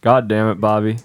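gruff fatherly scold at Bobby; Hank Hill impression. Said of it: "You went Hank Hill there".

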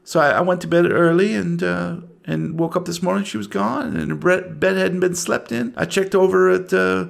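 lightly voiced anxious mother, halting; a mother recounting a missing daughter, mildly fretful; a hint of anxious small-town woman; worried mother. Game master voices worried mother.

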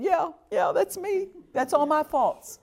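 half-tearful high retold plea; retold tearful confession. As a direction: relive the husband's broken admission. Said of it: "I'm just sitting there crying".

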